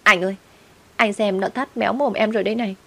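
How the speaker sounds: ex-wife tattling to her husband, mock tearful whine; whiny tattling. Ex-wife whining to the husband after being slapped, mildly tearful. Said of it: "khóc lóc mách lèo".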